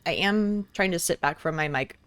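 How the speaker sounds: talking while crunching a snack; words around a crunchy bite; crunching chips. Real, not acted. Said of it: "hear me crunch".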